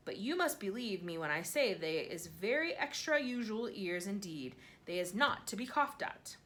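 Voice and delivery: the BFG's odd grammar, gently played; a hint of a kindly giant. BFG voiced in narration.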